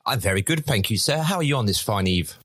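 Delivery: put-on posh English accent. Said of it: "drop the English accent, the posh one".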